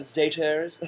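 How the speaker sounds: "Zaters" with an R put in at the end; added R. Retold or imitated. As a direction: sound an extra r in the ending of "Zaters". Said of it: "puts an R at the end of it".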